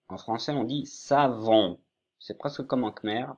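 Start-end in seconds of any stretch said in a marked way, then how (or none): 0.1-1.8 savon avec le son nasal on à la fin; prononciation modèle. Shown as a demonstration. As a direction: dites savon, finale on nasale. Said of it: "on dit savon avec le on à la fin". (savon prononcé pour un élève khmérophone)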